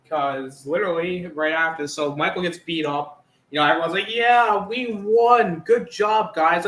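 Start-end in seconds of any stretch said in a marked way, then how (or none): 4.1-6.6 high, loud cheer; hammed-up team congratulations; mock celebration. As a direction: play a crowd cheering its win. Voices the mob celebrating a win.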